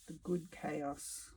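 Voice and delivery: soft and slow, almost to herself; quiet echo. Real, not acted. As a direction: let the words sink in, softly. Repeats the phrase to herself softly.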